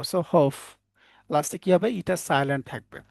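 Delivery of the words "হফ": HOPE read by letter sounds as "হফ"; teacher blending sounds into "হফ"; sounded-out reading. Shown as a demonstration. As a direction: say "হফ", ending on an f sound. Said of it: "ফিতে আমরা ফ পাবো".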